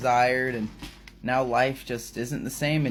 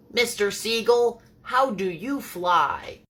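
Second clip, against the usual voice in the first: high-pitched tiny mouse voice; little mouse; 10 semitones higher, 3 dB louder, slower than usual. Acted. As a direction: ask in a high storybook mouse voice.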